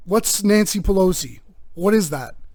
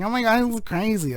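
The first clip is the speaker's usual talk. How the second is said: giggly wife; 5 semitones higher, 4 dB quieter than usual. Retold or imitated. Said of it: "tickling her at work and she's like".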